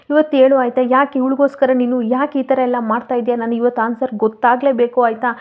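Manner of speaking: demanding, building to a loud ending; mock yell that peaks on ಹೇಳು ಹೇಳು; loud shouting. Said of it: "ಜೋರ್ ಜೋರಾಗೆ ಕೂಗಾಡ್ತಾ". (ಜೋರಾಗಿ ಕೂಗುವುದು)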